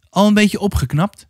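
gently encouraging, lifted in pitch; friendly. A narrator's reading. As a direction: check on someone in a friendly way. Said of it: "vroeg hij vriendelijk".

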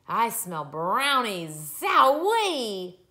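drawn-out, building to a loud high whoop; excited boy. Acted. Boy smelling his mother's brownies, excited whoop. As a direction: burst out with glee.

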